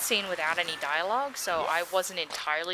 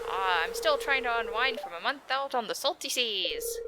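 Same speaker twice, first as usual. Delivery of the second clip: Willy voice; 4 semitones higher than usual. Acted. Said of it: "the voice I gave him".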